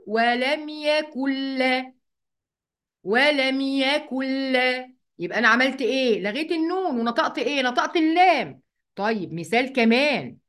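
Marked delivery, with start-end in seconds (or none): 0.1-4.9 very slow "ولم يكن لا" as wa-lam yakull-laa; nun merged into lam. Shown as a demonstration. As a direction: hold a doubled l in "يكن لا". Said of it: "وهقول".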